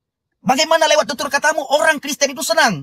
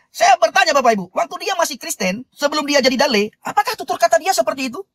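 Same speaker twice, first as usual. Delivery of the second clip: earnest sermon voice, building and lifted; preaching. Acted. Host preaching to live viewers about Dale, earnest sermon. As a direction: preach it to the congregation with conviction.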